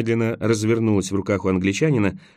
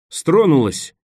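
higher, louder exclamation; excited shout; 6 semitones higher, 5 dB louder, much slower than usual. A narrator's reading. Nicholas as the figure moves, shouting out. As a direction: cry out as it finally gives. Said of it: "закричал он".

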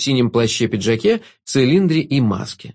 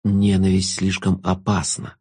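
slow, lower musing tone; philosophical; 5 semitones lower, slower than usual. A narrator's reading. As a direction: muse it slowly. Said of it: "философски заметил Шут".

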